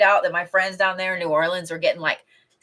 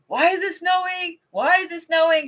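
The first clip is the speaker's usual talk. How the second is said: much higher, squeaky mock panic; imitating panicked friend; 11 semitones higher than usual. Quoting her moderator friend freaking out, squeaky mock panic. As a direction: play the friend freaking out over snow. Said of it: "She was like".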